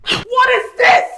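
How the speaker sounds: angry shout. Acted. Wife confronting husband who didn't show up, angry shout. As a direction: shout it slowly in outrage.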